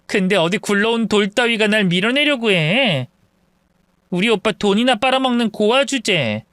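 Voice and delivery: understated scornful intoning; contemptuous. Acted. Sister-in-law belittling the orphaned in-law, contemptuous. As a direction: look down on her with mild contempt. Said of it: "경멸하듯 읊조린 동서의 마지막 말".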